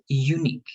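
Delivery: "Unique" as u-NIQUE, second syllable stressed; stress on last syllable. Shown as a demonstration. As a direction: model "Unique" with weight on "nique". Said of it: "the stress, unique in the last part".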